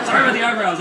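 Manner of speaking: loud, high mock apology; apologetic dog voice. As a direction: wail sorry as the bewildered dog.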